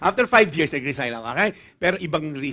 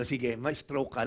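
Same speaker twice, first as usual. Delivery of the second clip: a hint of God, slow and softer; deadpan God voice; 6 semitones lower, 6 dB quieter, slower than usual. Pastor voicing God answering him, slow, soft and deadpan. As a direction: drop it low and calm like a dry verdict.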